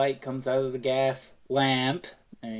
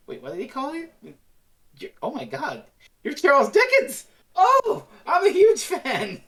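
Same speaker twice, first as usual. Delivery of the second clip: squealing higher and higher into a star-struck cry; fanboying; 9 semitones higher, 5 dB louder than usual. Retold or imitated. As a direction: gush like a starstruck fan. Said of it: "he starts just fanboying".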